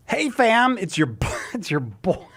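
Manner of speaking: hyped influencer greeting; ironic zoomer. Acted. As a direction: pitch it like a youth vlogger. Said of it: "Cy promoing something in Gen Z slang".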